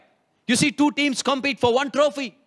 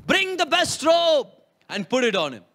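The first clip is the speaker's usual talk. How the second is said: proud command; 3 semitones higher than usual. Retold or imitated. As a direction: call out joyfully to the servants. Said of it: "Now the dad says".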